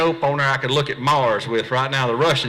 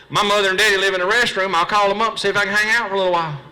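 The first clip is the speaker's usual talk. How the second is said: sarcastic reply; 6 semitones higher, faster than usual. Retold or imitated.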